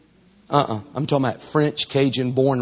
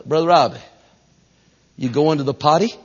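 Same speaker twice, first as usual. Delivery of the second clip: put-on r-less Northeastern woman's accent. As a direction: imitate a Northeasterner saying party as potty. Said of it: "heavy accented women".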